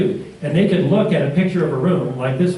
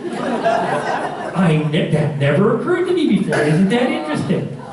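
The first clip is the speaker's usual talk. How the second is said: amazed; 6 semitones higher, slower than usual. Retold or imitated. Artist marvels, retold.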